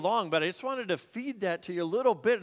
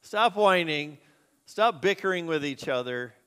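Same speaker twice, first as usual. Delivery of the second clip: "Stop whining" said louder and firmer, STOP pressed; firm rebuke; 4 dB louder than usual. Shown as a demonstration. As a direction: scold the congregation firmly on "Stop whining". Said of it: "That's a loose paraphrase".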